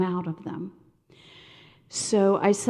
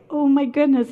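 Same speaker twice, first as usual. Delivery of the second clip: retold shock; 6 semitones higher, 6 dB louder than usual. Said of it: "And I was like".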